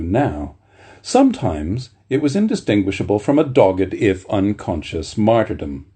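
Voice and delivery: measured, earnest reading of a memoir passage; literary reading voice; reading aloud. A narrator's reading. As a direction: read it like a cherished book. Reads memoir chapter aloud.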